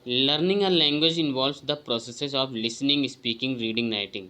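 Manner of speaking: slow, deliberate reading of a test item; careful exam-prep read-aloud; slow question reading. Acted. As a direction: read each word out carefully to the class. Reads quiz item aloud.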